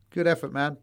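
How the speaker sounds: ordinary delivery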